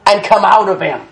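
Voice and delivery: measured, acted-out rebuke; preacher quoting an order to a demon; Jesus. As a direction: give a firm scriptural command. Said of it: "And Jesus rebuked him".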